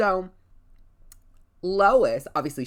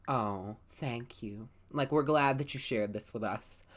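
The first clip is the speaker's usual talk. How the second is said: sincere thanks; 4 semitones lower, 5 dB quieter than usual. Retold or imitated. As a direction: gently thank them. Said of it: "I'm like".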